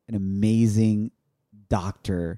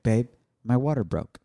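calm wife. Retold or imitated. Wife gently waking her husband with news, calm. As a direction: say it as if nothing is urgent. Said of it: "She's super tranquila".

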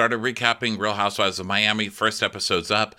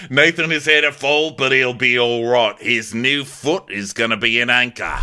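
louder, higher, laughing through it; laughing mock announcement; 4 semitones higher, 6 dB louder than usual. Host parodying the captain announcing to crew. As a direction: announce the news while cracking up. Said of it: "captain announcing to crew".

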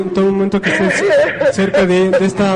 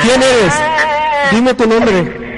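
commanding demand; slower than usual. Real, not acted. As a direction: order the spirit to name itself. Exige nombre a la presencia. (exigencia firme y fuerte)

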